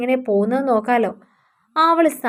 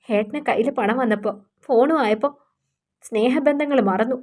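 softer, a touch of tears in the reproach; hurt wife voicing her grievance, subdued; understated weeping lament; tearful complaint; 4 dB quieter than usual. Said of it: "അവൾ പൊട്ടിക്കരഞ്ഞു".

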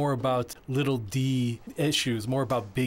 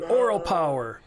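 higher, louder slogan with weight on oral; slogan proclaimed; 4 semitones higher, 5 dB louder than usual. Retold or imitated. Performer on stage declaring the shirt's slogan to the audience, higher and louder. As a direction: call out Oral power like a rally cry. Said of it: "And I said".

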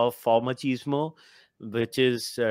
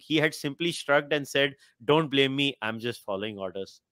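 reading aloud. Real, not acted. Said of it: "ये paragraph मुझे पढ़ना है".

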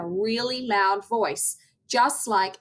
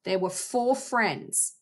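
storytelling voice. Shown as a demonstration. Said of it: "I might talk about".

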